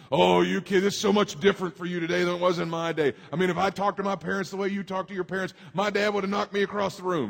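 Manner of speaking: hammed-up grown-up scolding a youngster; lecturing elders. Preacher mimicking elders scolding kids, light mock lecture. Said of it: "I heard people say that".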